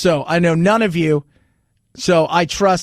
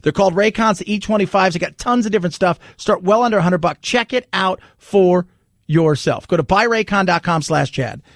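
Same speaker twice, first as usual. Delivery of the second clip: upbeat sponsor read, selling. Acted. Host reading a sponsor ad to listeners, upbeat ad read. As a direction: pitch the earbuds like a radio spot.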